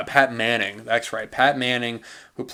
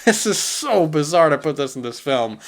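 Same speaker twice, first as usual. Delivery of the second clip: higher, incredulous mock outburst; a pitched-up, mocking what-the-heck; baffled disbelief; 4 semitones higher than usual. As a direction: act out gaping at a bizarre scene. Mock baffled reaction to scene.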